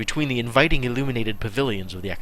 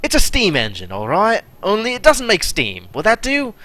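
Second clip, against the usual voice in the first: irate tone; 3 semitones higher than usual. Acted. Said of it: "her irate tone".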